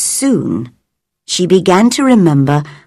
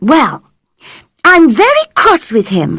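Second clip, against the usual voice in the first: cross; 9 semitones higher, faster than usual. A narrator's reading. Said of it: "said Mary".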